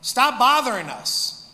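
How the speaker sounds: hammed-up shouting demon. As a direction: bark the demon away from you, loud and high. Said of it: "what it sounds like in Greek".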